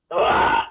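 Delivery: breathy ugh sound demo; unvoiced ugh noise. Shown as a demonstration. Explaining his bad accent, he makes the ugh noise. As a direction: show the ugh voice.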